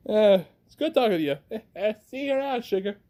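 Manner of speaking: put-on quick, light stab at a Southern accent; attempted Southern accent. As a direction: toss off a goodbye in amateur Southern. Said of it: "I'm not good with a southern accent".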